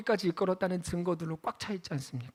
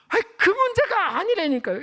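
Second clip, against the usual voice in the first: high, louder protest; exasperated; 9 semitones higher, 4 dB louder than usual. Real, not acted. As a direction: push back, annoyed. Exasperated correction. (답답해하며 높여서)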